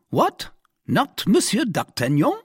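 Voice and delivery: very high, loud, rising questions; astonished exclamation. A narrator's reading. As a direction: exclaim in disbelief. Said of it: "exclaimed the commissary".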